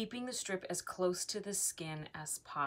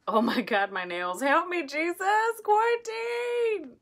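panicked squeal; 12 semitones higher, 9 dB louder than usual. Real, not acted. Vlogger squealing a prayer while handling wax. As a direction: squeal it like a frantic plea.

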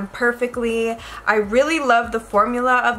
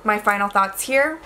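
ordinary talk, nothing marked

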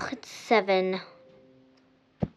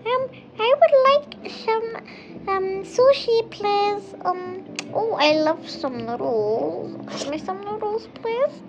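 very high, slow and sing-song, every line pitched way up; silly high customer voice; 11 semitones higher, 4 dB louder than usual. Acted. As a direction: play the odd customer in a squeaky put-on voice. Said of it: "can you, like, just stop talking like that?".

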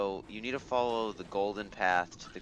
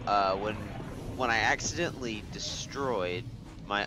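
stuffy mic; 2 semitones higher, 4 dB louder than usual. Real, not acted. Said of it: "It kind of makes me sound stuffy".

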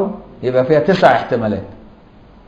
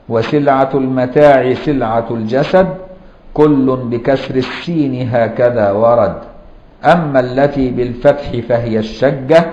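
slow, measured recitation of a teaching poem; reciting verse. Shown as a demonstration. Teacher to students, reciting the grammar verse slowly. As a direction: chant the rhyme line by line for memorizing. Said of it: "ولذلك قال بعضهم".

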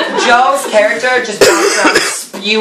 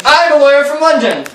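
raised, emphatic lawyer's proclamation; mock announcement; 4 semitones higher, faster than usual. London lawyer announcing Pip's fortune, mock proclamation.

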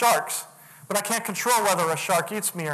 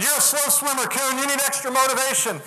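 lightly voiced instructor, higher pitch; raised-pitch retold instructor jibe; instructor's taunt; 5 semitones higher than usual. Acted instructor taunting a slow swimmer.

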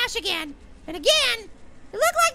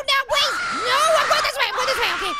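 raised, urgent shout; alarmed; 3 semitones higher, 4 dB louder, faster than usual. Real, not acted. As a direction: shout while hurriedly escaping. Monster appears while playing.

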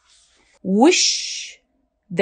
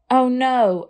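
cried; 5 semitones higher than usual. Acted. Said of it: "Ava cried".

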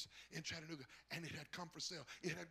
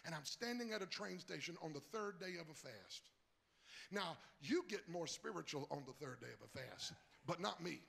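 normal talking voice

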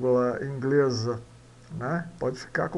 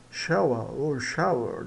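British vs American; 2 semitones lower than usual. Shown as a demonstration. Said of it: "dependendo do inglês".

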